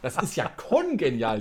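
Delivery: "kongenial" with a heavy stress on the first syllable Kon; mocking "kongenial" with the weight on Kon. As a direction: lean hard on the Kon of "kongenial". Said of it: "die Betonung immer auf dem Kon".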